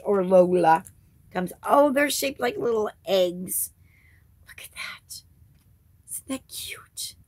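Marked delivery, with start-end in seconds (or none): 4.5-7.1 whisper. Real, not acted. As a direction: coo over something tiny. Admiring tiny candies.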